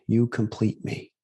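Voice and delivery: slow, earnest romantic movie line, only lightly voiced; a hint of the big romantic confession scene; lightly imitating Tom Cruise. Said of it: "Tom Cruise and Renee Zellweger".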